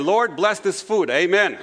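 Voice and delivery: quick, short mock grace; drive-through prayer. Shown as a demonstration. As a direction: rattle off a to-the-point grace. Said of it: "Others pray in the drive-through accent".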